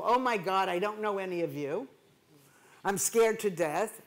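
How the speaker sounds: a touch of imitated panic; mildly voiced stage fright; mock scared. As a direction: lightly act the nervous speaker who knows nobody. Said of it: "make it stressful".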